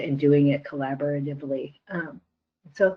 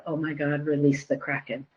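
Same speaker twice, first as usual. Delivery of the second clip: muttered under breath; 7 dB quieter than usual. Retold or imitated. Imitating board president reacting to a new member, muttered under his breath. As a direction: mutter it as if only to yourself. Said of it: "muttered under his breath".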